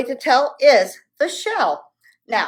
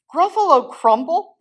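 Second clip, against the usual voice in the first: high, loud dismay; horrified gasp; 9 semitones higher, 4 dB louder than usual. Acted. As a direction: gasp it in horror. Gruffalo horrified.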